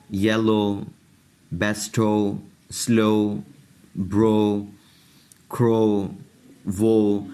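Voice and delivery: سویلو said swɛlo with a long o at the end; careful repeat of each word; teacher going back over the o words; word list demo. Shown as a demonstration. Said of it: "اب یہاں پہ دیکھیں".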